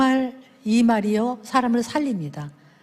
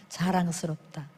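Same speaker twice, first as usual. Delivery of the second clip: softly said praise; 6 semitones lower, 8 dB quieter than usual. Shown as a demonstration. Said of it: "한번 해볼까요".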